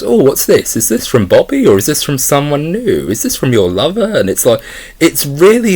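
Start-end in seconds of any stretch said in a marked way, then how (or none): 0.0-4.1 lightly voiced mocking father, pitched up; condescending imitation. Reviewer imitating the father taunting his daughter, mock-condescending. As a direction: sneer the questions like a creepy dad. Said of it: "he does it in such a condescending way".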